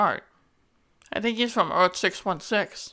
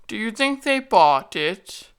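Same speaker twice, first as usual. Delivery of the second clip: scheming villain; 3 semitones higher, slower than usual. Pretend. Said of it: "plays out like this".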